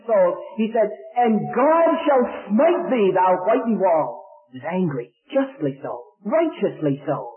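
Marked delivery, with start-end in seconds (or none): 1.2-4.2 slow, loud, righteous denunciation; mock biblical prophet. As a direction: pronounce doom very slowly and loudly. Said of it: "in all of the anger that that man had".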